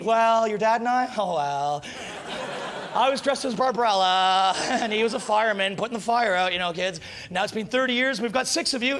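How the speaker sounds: a flustered mum confessing with a laugh; mother telling the kids. Pretend. Mother telling kids how they met.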